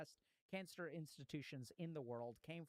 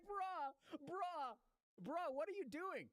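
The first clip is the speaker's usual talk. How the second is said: much higher, louder shocked outcry; shocked disbelief; 12 semitones higher, 3 dB louder, much slower than usual. Retold or imitated. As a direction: blurt it out like a room of stunned students. Everyone reacts to stem eating.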